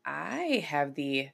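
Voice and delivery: slow, halting, groping for words; fumbling start. Real, not acted. Host stumbling over the episode opening, slow and halting. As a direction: stall and lose the thread. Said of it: "that sounded terrible".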